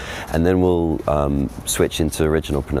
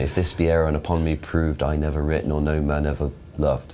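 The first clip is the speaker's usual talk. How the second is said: "proved" said with modern oo vowel. Shown as a demonstration. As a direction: modern received pronunciation reading. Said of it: "It doesn't quite work".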